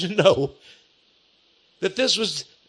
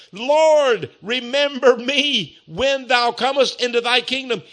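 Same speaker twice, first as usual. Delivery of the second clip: pleading; 4 semitones higher than usual. Retold or imitated. Preacher acts thief's plea to Jesus.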